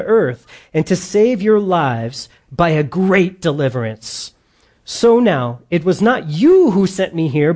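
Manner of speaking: firm, measured pulpit reading; scripture reading. A narrator's reading. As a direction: read the Bible passage out to a congregation. Reads scripture aloud.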